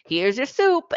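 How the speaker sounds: put-on high, slow little-girl voice; imitating daughter offering soup; child's voice. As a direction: play the toddler serving soup. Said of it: "one thing in and say".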